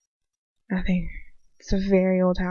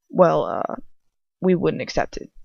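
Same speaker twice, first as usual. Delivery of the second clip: put-on a lightly lowered boy's voice for "we wouldn't accept it"; low voice; 3 semitones lower than usual. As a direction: drop into a slightly deeper voice for the friend. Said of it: "The low voice works".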